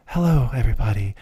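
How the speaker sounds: close-mic ASMR greeting; hushed ASMR intro voice. Shown as a demonstration. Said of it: "they will talk like this".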